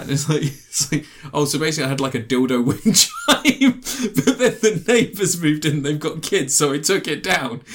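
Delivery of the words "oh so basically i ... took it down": laughing while quoting. Retold or imitated. Quoting woman, laughing through story.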